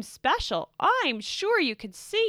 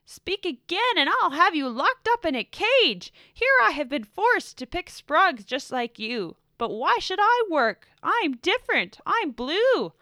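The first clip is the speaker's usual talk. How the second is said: higher, much louder, bossy rant; angry shouting; 6 semitones higher, 11 dB louder than usual. A narrator's reading. Blue shouts orders at the purples from his chair. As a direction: lord it over them, shouting. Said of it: "shouted Blue".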